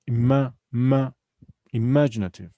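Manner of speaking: "Ima-, ma-" punched, then "imaginative"; stress on second syllable. Shown as a demonstration. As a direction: isolate and hit the MA in "imaginative". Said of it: "the stress is on the second".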